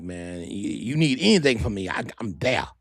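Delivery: lightly voiced cousin; understated impression of T T; imitating cousin T T. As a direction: offer help in a cousin's manner. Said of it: "That's how T T talk".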